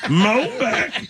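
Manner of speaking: high-pitched mock redneck twang; hammed-up redneck voice; redneck accent. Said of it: "She's a redneck".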